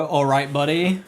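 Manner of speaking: patronizing all right buddy; condescending. Shown as a demonstration. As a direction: talk down to him, drawn out. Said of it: "when it's said condescendingly".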